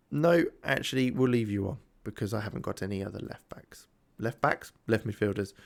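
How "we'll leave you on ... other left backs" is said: whispered aside; whispering. Real, not acted. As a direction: whisper it like a secret. Aside to player on pitch.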